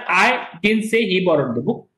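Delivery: I leaned on, with a rise at the end; stress on I. Shown as a demonstration. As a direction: give I the weight, end rising. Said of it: "I said".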